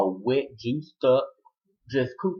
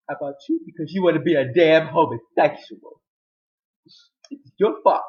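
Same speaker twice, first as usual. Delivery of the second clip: loud, raised retold accusation; higher, louder quarrelling voice; angry blame; 4 semitones higher, 7 dB louder than usual. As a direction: act out a father blaming his son loudly. Retold quarrel, father blaming son.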